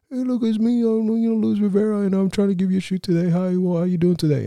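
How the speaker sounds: high, strained nervous greeting; nervous cracking voice. Retold or imitated. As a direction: squeak out the hello like a jittery teen. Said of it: "my voice is cracking".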